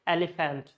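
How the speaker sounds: elephant as eli-fant, full final vowel; no schwa in elephant, say FANT fully; village pronunciation. Retold or imitated. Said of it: "some people say in villages".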